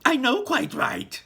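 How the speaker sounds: high, loud slow lament; high loud slow wail; distressed mother. Acted. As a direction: moan in agreement.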